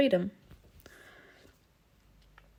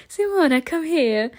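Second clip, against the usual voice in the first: calling out; 7 semitones higher, 4 dB louder than usual. Acted. Mimi calling her over.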